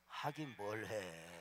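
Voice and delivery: preacher dryly answering his own question, very slow; slow deadpan. Real, not acted. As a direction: drag it out very slowly and dryly. Punchline of the sermon joke.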